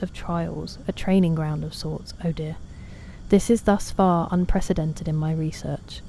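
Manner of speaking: lightly voiced scholarly explorer reading notes; measured in-game journal read; reading game text. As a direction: read it like an archaeologist's journal entry. Reads game journal aloud.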